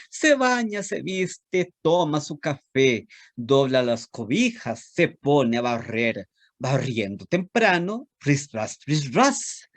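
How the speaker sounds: lilting, sing-song storytelling read; animated children's poem reading. Acted. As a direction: recite it like a rhyme for little kids. Reads a children's poem aloud.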